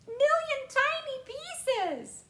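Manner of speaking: very high, very loud frantic screaming; frantic mother. A narrator's reading. Mother screaming for her son to come back. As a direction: plead in a panicked scream, slowing at the end.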